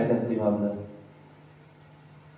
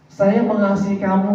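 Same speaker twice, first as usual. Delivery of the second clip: friend's empty promise; 5 semitones higher than usual. Retold or imitated. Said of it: "Rian bilang begini nih".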